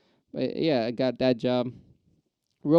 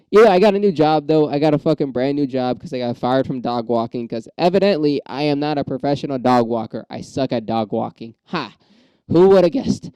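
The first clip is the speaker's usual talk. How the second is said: excited; 6 dB louder than usual. Real, not acted. Loud burst about new job.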